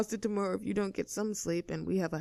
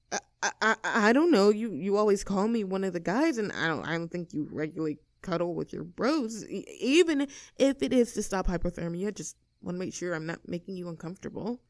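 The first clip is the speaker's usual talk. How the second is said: flustered. Acted. Flustered stammering confession.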